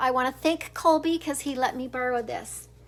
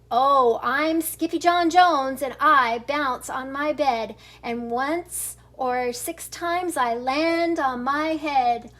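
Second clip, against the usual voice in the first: 1 bouncy kitten rhyme. Acted. Kitten sings on his bed.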